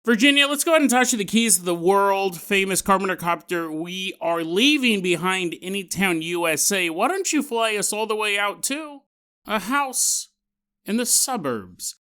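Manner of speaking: loud, rolling segment sign-off; show-host announcer. Acted. Host sending co-pilot to the next story, announcer delivery. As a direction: announce the next destination with showman's emphasis. Podcast host's show transition.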